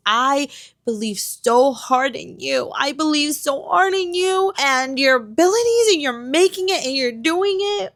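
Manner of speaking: hammed-up supportive pep talk; mock cheerleading. Acting out past cheerleading for author.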